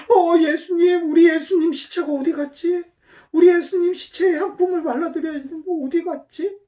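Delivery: high, pleading, tearful voice; crying Mary. Acted. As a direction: act out Mary weeping at the empty tomb. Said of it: "하고 막 울고 있으니까". (울먹이며 애타게 찾는 목소리)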